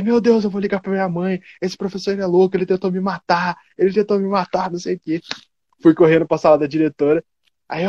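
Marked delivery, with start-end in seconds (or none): 0.0-5.2 mock drama. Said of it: "Eu comecei a chorar".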